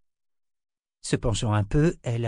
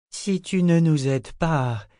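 very reasonable tone; 7 semitones higher, 3 dB louder, slower than usual. A narrator's reading. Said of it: "d'un ton très raisonnable".

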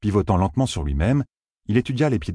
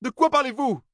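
much higher, roaring curse; roared curse. A narrator's reading. Matt roaring a curse at the fox-people. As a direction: bellow the curse in fury.

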